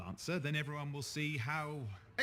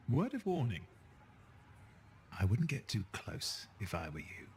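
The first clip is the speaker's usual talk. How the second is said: mock ominous warning.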